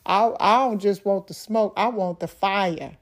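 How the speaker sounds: snappy comeback. Retold or imitated. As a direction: fire it back with attitude. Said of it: "something I said that was snappy".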